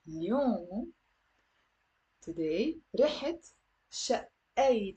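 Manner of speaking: اليوم رحت شقيت spelled out slowly. Shown as a demonstration. Teacher slowing down so the class can repeat. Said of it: "I'm gonna say it slowly".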